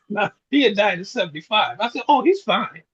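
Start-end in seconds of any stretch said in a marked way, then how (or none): 2.1-2.8 laughing through a fib. Retold or imitated. Son laughing as he fibs to his mother that Dad is fine. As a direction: laugh the words out while covering for him.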